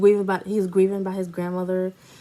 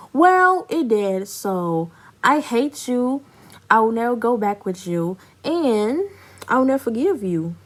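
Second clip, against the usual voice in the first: retold telling-off; 3 semitones higher than usual. Telling off cheating boyfriend.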